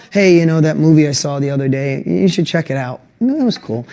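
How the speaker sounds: low, flat and offhand; bored recommendation. Shown as a demonstration. Friend mentioning a movie, deliberately unexcited and offhand. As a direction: shrug it off like it barely mattered. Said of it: "No, you're like".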